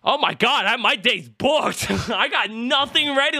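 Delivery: high, slowed, laughing dismay; realizing the day is fully booked; overwhelmed panic. Real, not acted.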